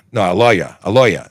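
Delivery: "lawyer" as "loy-ya" in New York style; put-on New York "lawyer", r dropped; New York accent. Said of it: "trying to make my New York thing".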